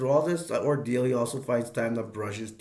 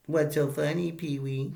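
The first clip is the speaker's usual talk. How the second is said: higher put-on voice, rising at the end; mock-offended character voice; imitated indignant question; 4 semitones higher than usual. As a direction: demand it like a peeved movie brat. Francis reacts to being laughed at.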